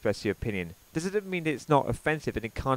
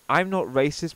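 mocking paraphrase; 4 dB louder than usual. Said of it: "So in other words".

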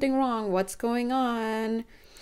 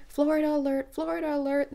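playful higher alarm call, announcing Florida; mock alert; 6 semitones higher than usual.

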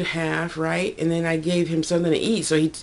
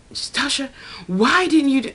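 quoting Damien; 9 semitones higher than usual. Retold or imitated. Quoting Damien in retold argument.

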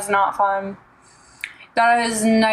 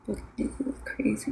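unhinged villain; 13 dB quieter than usual. Pretend. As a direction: whisper it like a madman. Eerie whisper to chat.

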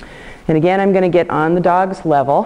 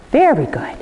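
high praise; 10 semitones higher than usual. Real, not acted. Praising the dog.

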